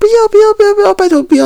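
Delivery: play-acted, very high, shrill, repeated pleading shout. Describing watching a drama scene, voicing what was yelled inside: retelling an inner shout. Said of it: "我现在是在那心里大喊".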